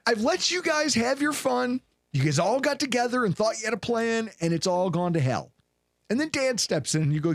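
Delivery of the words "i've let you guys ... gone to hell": a higher, lightly voiced stern coach; coach addressing team. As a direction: lay down the law as head coach. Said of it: "Sean McDermott stepped into the room and was like".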